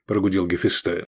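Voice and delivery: ordinary delivery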